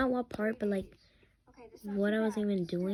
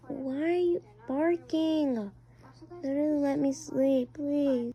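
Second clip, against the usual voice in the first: put-on sleepy kid voice; 3 semitones higher than usual. Kid character complains, woken.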